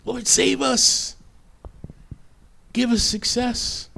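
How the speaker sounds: a restrained version of the priests' chant; imitated proclamation. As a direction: lift it high and draw it out.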